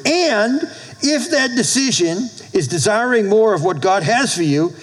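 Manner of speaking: measured, with pauses between phrases; slow and deliberate. Real, not acted. Pastor giving a quote to write down, slow and deliberate. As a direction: spell it out slowly for note-takers. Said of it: "I'm gonna say this slow".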